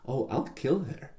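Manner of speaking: put-on high, slow, light French accent, sweetly menacing. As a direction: purr the threat like a little French girl. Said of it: "in this sweet little French voice".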